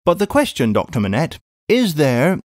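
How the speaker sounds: a brisk English housekeeper calling out; a hint of a bustling maid; Miss Pross.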